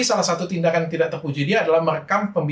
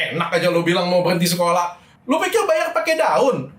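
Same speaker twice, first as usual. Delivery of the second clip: mock scolding. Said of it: "Pasti aku bentak, pasti aku marahin".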